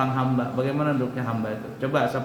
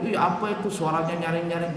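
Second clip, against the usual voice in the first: mocking classmate; 3 semitones higher than usual.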